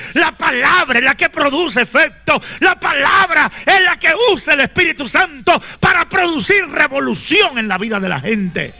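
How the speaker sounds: loud, high preacher shouting scripture; fiery preaching. Acted. Preacher shouting scripture to the congregation, fiery and loud. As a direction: thunder it at the congregation.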